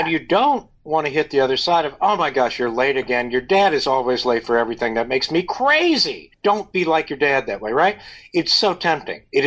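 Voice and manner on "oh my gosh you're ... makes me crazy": nag, then stretch out the last complaint; mock exasperation. Acted parent scolding late child.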